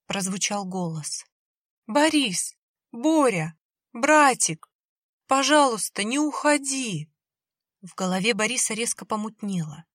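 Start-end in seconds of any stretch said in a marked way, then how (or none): 1.9-7.1 put-on high, loud pleading little-girl voice; eerie child's call. A narrator's reading. Ghost sister begging her brother not to leave, high and loud.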